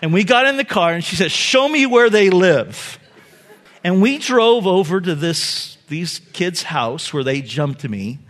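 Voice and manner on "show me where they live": stern mom. Retold or imitated. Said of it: "with a very stern voice".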